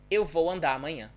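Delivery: quick and run together, the R of "andar" dropped into "amanhã"; fast connected speech. Shown as a demonstration. Teacher showing learners how the sound disappears, fast connected speech. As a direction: link "Eu vou andar amanhã" fast, no vibrating R. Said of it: "if I pronounce it fast".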